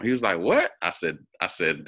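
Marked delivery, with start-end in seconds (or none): 0.4-0.7 imitating brother's shock. Brother hears moms know each other.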